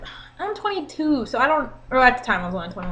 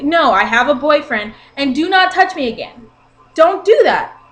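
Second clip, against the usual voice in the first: rising firm warning, ending louder; to the drunk guy who grabbed her shirt, a firm warning that ends louder; 4 dB louder than usual. Retold or imitated. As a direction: shut him down, then come in louder.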